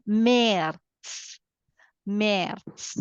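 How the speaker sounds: März said as merts with the umlaut as e; slow German März, merts. Shown as a demonstration. Teacher showing the umlaut to learners. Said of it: "so I read it as".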